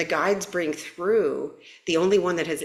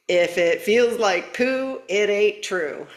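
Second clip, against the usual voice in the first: poem recital; 4 semitones higher, 3 dB louder, slower than usual. Shown as a demonstration. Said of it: "this is my big stab at poetry".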